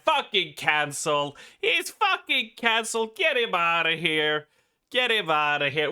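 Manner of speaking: hammed-up indignant cry, pitch jumping; mock outrage. Streamer pretending to cancel someone, mock outrage. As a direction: pretend to demand he be thrown out.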